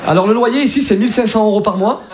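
lightly voiced polite Parisian agent; a hint of formal Parisian landlord. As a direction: quote the terms with Parisian politeness. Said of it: "Ça, c'est ça à Paris".

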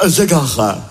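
mock posh. Posh hautain self-introduction.

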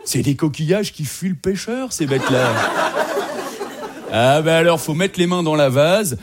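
coarse romantic pal. Retold or imitated. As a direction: bark out crude love advice like a fisherman. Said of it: "un grand romantique".

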